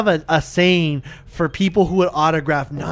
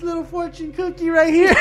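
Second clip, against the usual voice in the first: imitating Big Show; 10 semitones higher than usual. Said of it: "he goes".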